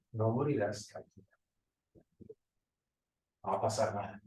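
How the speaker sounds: soft, coaxing devil's voice; satanic voice. Retold or imitated. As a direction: susurro tentador del diablo. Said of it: "Es la misma voz satánica". (voz satánica suave y tentadora)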